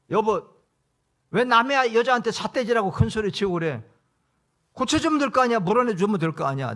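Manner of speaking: confronting the driver. Retold or imitated. Pastor telling off the taxi driver who yelled at his wife, loud and indignant. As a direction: stand up to the bully for your wife.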